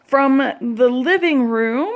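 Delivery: breathing heavy after walking; puffing, short of air. Real, not acted. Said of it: "I'm breathing heavy".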